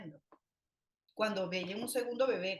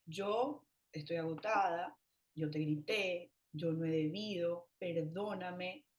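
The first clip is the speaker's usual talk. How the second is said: sincere apology; 3 semitones lower, slower than usual. Shown as a demonstration. Mother apologises to her son, slow and tired. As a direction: own up gently to the child. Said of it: "le puedes decir incluso".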